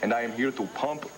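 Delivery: hammy fake German accent; bad German accent. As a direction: ham up a German accent like Freud. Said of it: "That's the worst German accent I ever heard".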